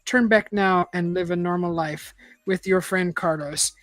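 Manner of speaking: measured read-aloud narrator; story narration. A narrator's reading. Reader telling listeners an adventure story, measured narration.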